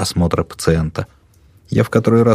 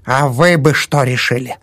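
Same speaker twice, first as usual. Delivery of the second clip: attacking; 7 semitones higher than usual. A narrator's reading. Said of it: "всё нападала она".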